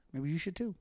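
Velveteen Dream impression. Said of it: "I just channeled Velveteen Dream with that".

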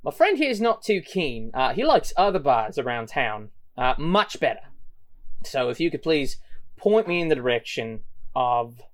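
gang leader. Acted. Gang leader threatens Sally.

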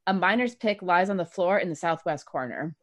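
steady scene-setting read; game master narration. Acted. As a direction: describe the room like a dungeon master. GM describes the room.

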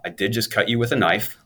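put-on a light German accent, dry and matter-of-fact; a hint of German accent from the surgeon. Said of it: "this German guy with a German accent".

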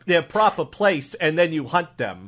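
put-on accented officer carefully restating it; deliberate improv cop summing up; puzzled cop. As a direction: reason it out as a local cop. Cop questions shark hunters.

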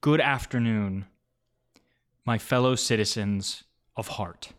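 orate like a proud chancellor; blustery pompous mayor. Acted. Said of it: "He goes".

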